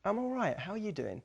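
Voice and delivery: lifted, brighter upbeat reply. Shown as a demonstration. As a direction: sound glad they asked. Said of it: "If you give higher energy".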